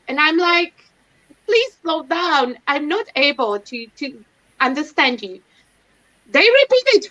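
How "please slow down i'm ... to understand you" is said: patiently slowed-down request; slow and careful, asking them to ease off; slow, deliberate plea. Retold or imitated. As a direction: spell each word out slowly for a fast caller. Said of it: "they talk so fast".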